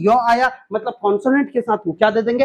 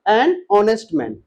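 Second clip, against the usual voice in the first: An honest man dragged out very slowly, each word separate; very slow model; 2 semitones lower, much slower than usual. Shown as a demonstration. Teacher repeating An honest man very slowly for students. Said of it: "क्या हो जाएगा?".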